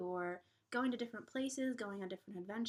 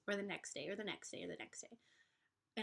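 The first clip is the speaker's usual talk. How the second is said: fading worry; 5 dB quieter than usual. Shown as a demonstration. Worries trailing into the future.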